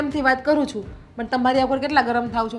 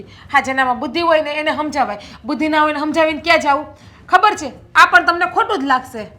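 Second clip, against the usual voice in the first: quick, louder jab; fast angry taunt; 3 semitones higher, 4 dB louder than usual. Acted. Wife taunting husband mid-quarrel, fast and loud.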